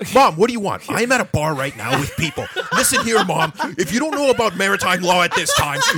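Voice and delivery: mock angry wrestling-promo rant. Acting out how someone answered their mom's call at a bar, mock wrestling promo. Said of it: "at this point she's doing a wrestling promo".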